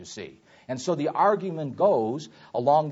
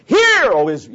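loud, higher-pitched yelled summons; 6 semitones higher, 11 dB louder than usual. Shown as a demonstration. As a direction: yell it to grab everyone's attention. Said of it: "that's the yell".

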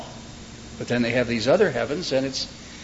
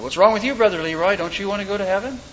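mock preacher challenging a holdout, higher pitch; fired-up preacher; 6 semitones higher, faster than usual. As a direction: press him with raised, incredulous questioning. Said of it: "getting the congregation all fired up".

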